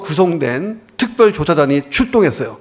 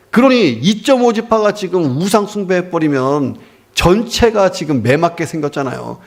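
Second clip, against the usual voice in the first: usual speaking voice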